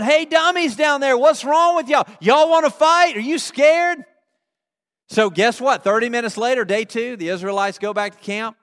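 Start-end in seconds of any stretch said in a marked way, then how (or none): 0.0-4.0 high, loud jeering; taunting yell. Acted. Canaanites yell down at walking Israelites, taunting yell. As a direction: holler insults down from the wall. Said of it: "And they're yelling".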